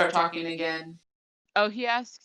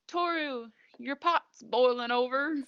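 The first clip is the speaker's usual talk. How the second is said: raised-pitch country twang, calling out; lightly country-accented sing-out; 5 semitones higher than usual. Retold or imitated. Imitating Shigure telling Toru about the pot, country accent. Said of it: "why I said that so country".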